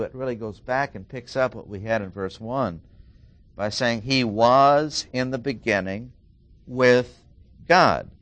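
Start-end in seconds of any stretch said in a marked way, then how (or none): 4.0-8.1 "with" set apart by pauses and said loudly; stress on with. Shown as a demonstration. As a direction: isolate "with", pushing it out louder before "God". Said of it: "might be placed on the word with".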